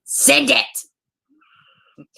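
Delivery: breathy whisper, no voice at all; hushed whispered prompt to send it; whispered urge. Real, not acted. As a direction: whisper it like a sly nudge. Asking viewers to send money.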